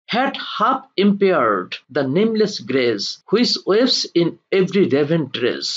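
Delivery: slow, deliberate verse reading; poem recitation. Acted. Teacher reads Byron's verse to students, slow recitation. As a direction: read the verse out phrase by phrase, slowly.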